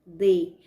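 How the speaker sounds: "D" held long and loud; loud, isolated D; stressed syllable. Shown as a demonstration. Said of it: "demorei mais tempo pronunciando".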